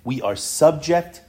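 low, subdued voice of a son confiding; hushed, low acted dread; retold tearful resignation. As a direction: quietly imitate a son's grave lament, no real sobs. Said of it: "he's crying because things are gonna be difficult".

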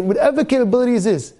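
ordinary talk, nothing marked

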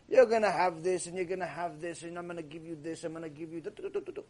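listing gifts, trailing off quietly; fading promises. Acted. God's promises voiced, fading.

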